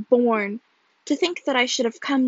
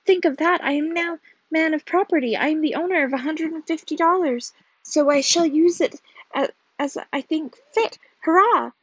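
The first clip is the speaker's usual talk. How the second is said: higher, excited proclamation; exultant; 4 semitones higher, 4 dB louder than usual. A narrator's reading. Husband claiming his father's money, exultant. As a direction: boast of sudden riches, building to a hurrah.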